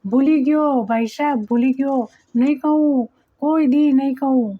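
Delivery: lightly mimicking a scared boy's plea; mocking imitation. Taimur mocks Batuk by copying his plea, lightly voiced. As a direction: tease him by echoing his whimper. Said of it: "બટુકની નકલ કરતો હોય એમ".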